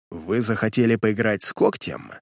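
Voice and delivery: low, quiet hateful hiss. Acted. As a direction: hiss it with hatred. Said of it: "прошипел он с ненавистью". (шипение с ненавистью)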